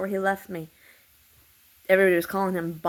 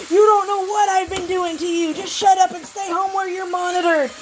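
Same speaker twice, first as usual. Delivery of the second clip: high, mocking taunt; imitating a menacing taunt; mocking threat; 11 semitones higher, 4 dB louder than usual. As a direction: mimic the threatening messages in a high, sneering voice. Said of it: "they kept saying".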